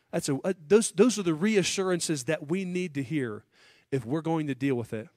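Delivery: ordinary talk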